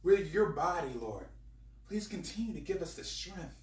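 earnest spoken prayer. Real, not acted. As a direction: pray it sincerely. Prays aloud to the Lord.

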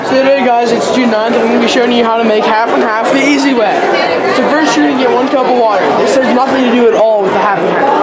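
upbeat TV chef presenter voice; cooking show host. Pretend.

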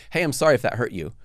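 quick, offhand non-apology; condescending apology. Shown as a demonstration. Apologizing without admitting fault, mildly condescending. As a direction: toss off a faintly condescending sorry. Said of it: "That's almost condescending".

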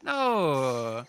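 long, loud drawn-out "no"; exasperated gamer's wail; loud protest. Real, not acted. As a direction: cry out at an unfair loss. Protests after losing in the game.

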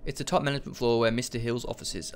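brisk, fluent second read. Real, not acted. Player rereading the floor directory after stumbling, quick fluent read. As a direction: read it through quickly in one go. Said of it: "I'll say it again".

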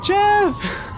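put-on high squeaky girl voice. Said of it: "Give me a Megan voice".

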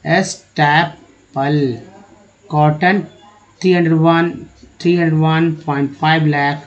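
slow, word-by-word English reading; careful reading demo. Shown as a demonstration. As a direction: read it out slowly, phrase by phrase, for learners. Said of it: "इस तरह से आप words को पढ़िए ध्यान से".

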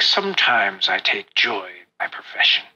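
low, dry character voice; Albrecht. Acted. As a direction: drop the pitch for a spymaster's confession. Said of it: "He's like".

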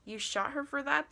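high, incredulous yell; yelled question. A narrator's reading. Man on the phone to narrator about the girl, high yelled question. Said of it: "the voice yells".

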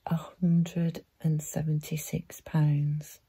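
drawn out word by word; measured and weighty, each word separated; slow, deliberate repeat. Acted. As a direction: spell out the paltry sum slowly. Repeats sum slowly, for emphasis.

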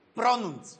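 "Pronunț" said distinctly with a rolled r; crisp, careful "Pronunț"; model pronunciation. Shown as a demonstration. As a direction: demonstrate "Pronunț" for the patient. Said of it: "Spune așa".

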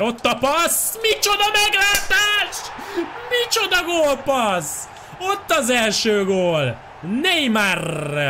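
high, soaring goal call; excited Hungarian sports commentary. Acted. FIFA goal, commentator-style outburst.

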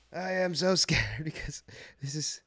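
breathless, shaky whisper; nervous whisper. Real, not acted. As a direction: whisper like your hands are trembling with nerves. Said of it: "I'm shaking".

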